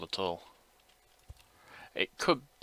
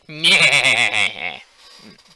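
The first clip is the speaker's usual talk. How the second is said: goat bleat; 3 semitones higher, 12 dB louder than usual. Acted. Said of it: "that's my goat impression".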